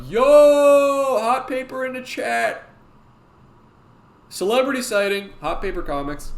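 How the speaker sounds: loud, high, drawn-out greeting; excited shout-out. Real, not acted. Streamer spotting a celebrity in the chat, excited high shout. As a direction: holler it out high and long.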